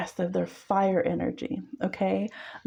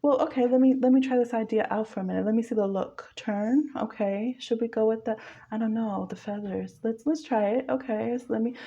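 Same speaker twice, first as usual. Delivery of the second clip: improvising muse; 3 semitones higher than usual. Retold or imitated. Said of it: "the one who helps you say".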